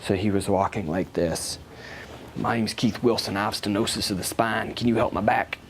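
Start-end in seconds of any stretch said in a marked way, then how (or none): 2.4-5.6 light Southern accent imitation; Keith Wilson. Hunched patient introducing himself, lightly imitated Southern accent. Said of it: "deep, deep Southern accent".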